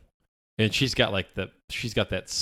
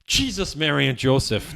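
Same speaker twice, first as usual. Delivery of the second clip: mock Irish exclamation; 5 semitones higher, 6 dB louder than usual. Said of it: "waiting for you to go".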